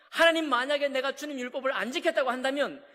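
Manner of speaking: loud, indignant vow; protesting oath. Retold or imitated. Job protesting his innocence to God, loud and indignant. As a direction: swear your innocence at God. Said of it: "막 이렇게 따져 묻습니다".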